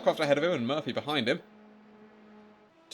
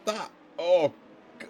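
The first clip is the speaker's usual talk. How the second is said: dismayed surprise; 3 semitones higher than usual. Real, not acted. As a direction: react as the driver loses places. Dismay at a lost position.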